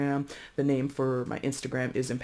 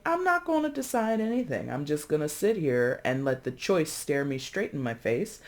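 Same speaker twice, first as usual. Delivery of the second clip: 1 mock stubborn inner voice. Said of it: "basically saying".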